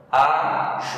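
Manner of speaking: "Ajuizar" in separate syllables, a, ju, i, ZAR, the zar strongest; syllable-by-syllable "Ajuizar" showing the stress on final zar; stress on last syllable. Shown as a demonstration. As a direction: split "Ajuizar" up and land hard on zar. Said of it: "Olha como eu pronuncio aqui".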